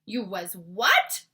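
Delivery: slow, loud disbelieving question; shocked cry. A narrator's reading. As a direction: gasp out the question. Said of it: "cried the B F G".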